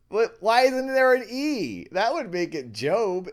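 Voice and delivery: very high and loud, laughing through it; giggling outrage at the spelling; laughing disbelief. Real, not acted. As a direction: squeal the question mid-laugh.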